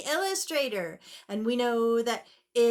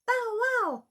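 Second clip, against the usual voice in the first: puppy bark; 10 semitones higher than usual. Acted. Dog voice in story.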